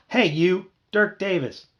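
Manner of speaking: high, loud little voice; small voice straining to be heard; yelling. A narrator's reading. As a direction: yell at the top of a little voice. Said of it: "yelled at the top of my little voice".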